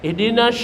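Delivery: IHDINAS ending in a hushing sh; wrong big sin. Shown as a demonstration. Showing the forbidden reading, hushed sh. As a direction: end IHDINAS on a broad sh sound. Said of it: "nggak boleh".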